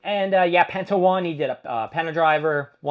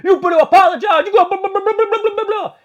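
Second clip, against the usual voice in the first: much higher, louder mocking Usos demand; angry Usos; 10 dB louder, faster than usual. Usos confronting CM Punk in the ring, mock angry yell. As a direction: yell it like the hot twins. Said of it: "They're like".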